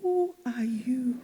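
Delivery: slow, breathy hushed whisper. Shown as a demonstration. Preacher asking the congregation again in a slow whisper. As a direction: lean in and whisper it. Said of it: "preacher repeats question softly".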